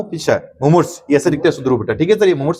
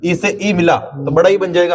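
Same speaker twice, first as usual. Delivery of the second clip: slow explaining; 3 semitones higher, slower than usual. Shown as a demonstration. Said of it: "teacher explains vowel rule".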